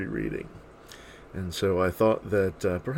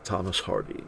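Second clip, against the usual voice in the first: measured poem reading with swelling stresses; poetry recitation. Acted. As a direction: recite verse with lilting rises, softening at stanza ends. Reads a poem aloud.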